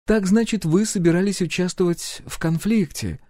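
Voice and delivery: composed royal inquiry; empress voice. A narrator's reading. Empress questions the hero's plans, lightly voiced.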